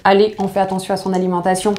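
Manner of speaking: voix intérieure pressée, débitée vite; petite voix intérieure imitée. Retold or imitated. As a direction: imiter le lecteur qui se motive à la hâte. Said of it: "vous vous dites". (le lecteur qui se motive après le week-end, en voix rapide)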